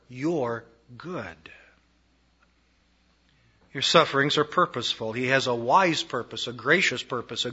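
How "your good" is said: hushed whisper on the promise. Acted. Preacher confiding God's promise to listeners, whispered. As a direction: drop to a whisper. Intimate close of the point.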